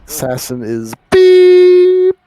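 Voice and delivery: high, slow robotic voice; voice changer. Acted. Voice changer game callout.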